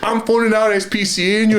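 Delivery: shrill mock threat to call the animal police; woman threatening. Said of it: "she goes".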